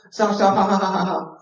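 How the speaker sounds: high, giggling mock kid protest; laughing stop. Child being tickled, giggling mock protest. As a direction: laugh while saying stop.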